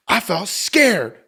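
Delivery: put-on slow, small voice of a scared little boy; lightly voicing the son's fear, slowly; imitating his scared son. Scene: father retelling his son admitting fear, slow mock child voice.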